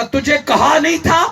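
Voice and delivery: angry reproach. Retold or imitated. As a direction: scold her in a preacher's retold anger. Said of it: "مجھے غصہ آ گیا".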